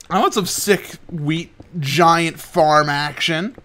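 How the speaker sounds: mock dude voice. Hyped about farms.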